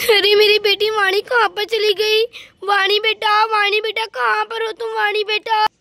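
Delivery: loud, worried calls for her lost daughter; calling out. Acted. A mother searching the streets calls loudly for her daughter.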